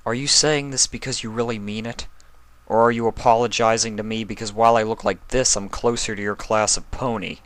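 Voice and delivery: lightly voiced young dragon, weary and bitter; a hint of a tired, hurt boy; Spike voice.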